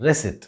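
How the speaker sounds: RECEIPT said with no P sound; silent P. Shown as a demonstration. Teacher shows the word's correct pronunciation, silent P. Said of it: "the P in this word is silent".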